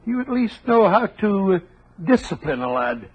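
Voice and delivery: light put-on Scottish burr; a hint of Scottish; posing as a Scotsman with a mild Scottish accent; fake Scottish accent. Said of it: "your Scottish accent is beginning to disappear".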